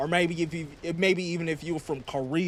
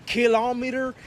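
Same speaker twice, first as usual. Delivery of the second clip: high, baffled question at the foreign word Kilometer?; incredulous; 8 semitones higher than usual. Acted. Mock-baffled president repeating a strange word, high and incredulous. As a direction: say Kilometer? as if it's alien, pitch jumping up.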